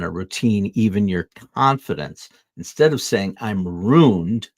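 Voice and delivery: measured, earnest motivational script read; inspirational reading. Acted. Host reading an uplifting script to viewers, earnest and measured. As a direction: deliver it like a heartfelt self-help reflection.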